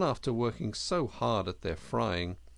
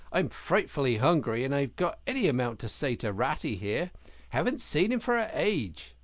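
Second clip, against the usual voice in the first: louder, hearty boasting river animal; boastful Otter; 4 semitones higher, 4 dB louder than usual. Acted. Otter boasting to Mole and asking for ham, hearty. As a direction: swagger it, full of appetite.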